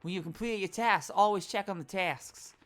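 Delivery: loud poster reading; reading poster aloud. Acted. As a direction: boom out the slogan.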